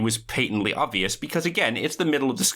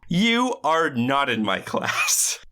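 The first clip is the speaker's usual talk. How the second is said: stern teacher; 3 semitones higher, much slower than usual. Retold or imitated. Mock teacher scolding crasher.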